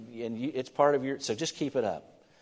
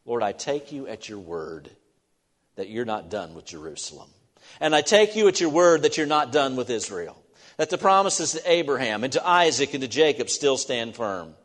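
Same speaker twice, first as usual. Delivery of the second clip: earnest prayer, building to a strong plea; voicing Daniel's prayer; 2 semitones higher, 4 dB louder than usual. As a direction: speak as Daniel pleading with God. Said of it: "you know what he's saying?".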